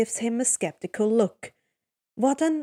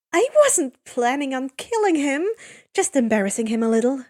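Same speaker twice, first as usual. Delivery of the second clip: huffing; 2 semitones higher, 4 dB louder than usual. Acted. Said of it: "she huffs".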